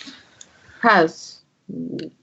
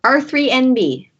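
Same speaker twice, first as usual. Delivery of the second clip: droid character; 7 semitones higher than usual. Acted. Third droid gives its name.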